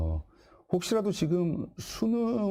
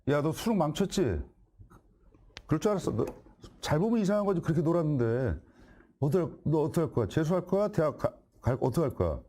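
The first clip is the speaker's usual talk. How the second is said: mock scolding father, a bit higher; scolding parent; 3 semitones higher than usual. Shown as a demonstration. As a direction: play the nagging dad after the exam. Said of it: "연기를 해야 돼요". (수능 망친 자식을 다그치는 아빠 연기)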